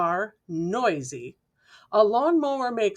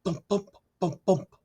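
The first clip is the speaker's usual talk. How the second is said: ball bouncing. A narrator's reading. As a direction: bounce each bump like a basketball. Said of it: "dribbling his basketball".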